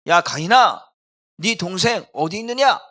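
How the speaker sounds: loud, commanding acted question; calling out. Preacher as God questioning Cain about his brother, calling out loudly.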